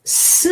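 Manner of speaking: isolated "S", the hiss of a soft C; soft C sound. Shown as a demonstration. Teacher explaining second C to learners, "S" as an isolated sound. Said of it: "The second C is pronounced".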